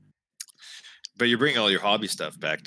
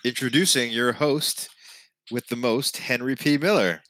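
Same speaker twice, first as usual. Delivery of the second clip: DJ voice; 3 semitones higher than usual. Acted. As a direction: announce it like a game show host. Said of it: "throw a D J voice on".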